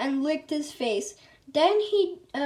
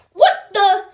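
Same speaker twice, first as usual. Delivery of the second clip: loud, higher startled cry; shocked scream; 6 semitones higher, 12 dB louder than usual. A narrator's reading. Principal screaming in shock inside the restroom, loud. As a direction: jolt out the words in shock. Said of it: "screamed Mister Krupp".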